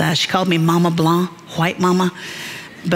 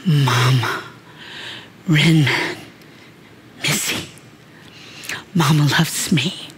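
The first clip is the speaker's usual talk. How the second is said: imitating small child; 3 semitones lower than usual. Child's first reply, voiced.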